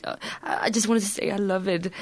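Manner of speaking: mildly shy, hesitant quote of a fan; embarrassed. Retold or imitated. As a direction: imitate someone timidly confessing they like it. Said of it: "people seems almost embarrassed to approach me".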